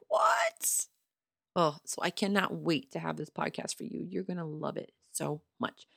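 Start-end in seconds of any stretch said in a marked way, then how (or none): 0.1-0.9 high breathy gasped what; imitating her own stunned whisper; shocked what. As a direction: whisper it in disbelief, jaw dropped. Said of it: "I was like".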